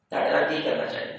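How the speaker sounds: hushed, almost whispered question; gentle line. Retold or imitated. Prophet gently asking the people of Mecca, hushed whisper. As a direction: breathe it out tenderly, barely voiced. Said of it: "ایک بڑا پیارا جملہ بولا".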